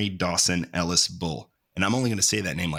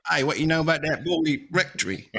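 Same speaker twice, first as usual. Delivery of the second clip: higher, loose mock question; casual friend voice; 8 semitones higher than usual. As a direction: toss it off like a buddy.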